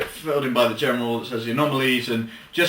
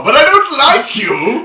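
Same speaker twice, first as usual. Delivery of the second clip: mock gruff general; 10 semitones higher, 9 dB louder, slower than usual. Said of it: "the general".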